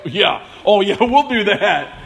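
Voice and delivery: scoffing laugh through the words; sarcastic chuckling disbelief; mocking laugh. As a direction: laugh it off as a joke. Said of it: "And they're, like, laughing".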